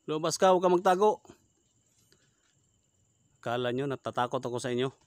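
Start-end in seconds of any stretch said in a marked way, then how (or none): 0.0-1.2 loud, higher call into the dark; challenging shout. Real, not acted. Ghost hunter shouting at the aswang to come out. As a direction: order the creature out.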